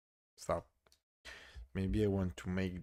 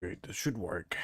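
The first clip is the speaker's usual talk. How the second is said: whispered hope; faster than usual. Real, not acted. Hopeful aside.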